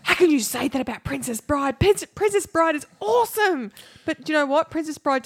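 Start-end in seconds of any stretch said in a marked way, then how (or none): 0.0-3.7 mock indignant fan. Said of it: "lots of people out there go".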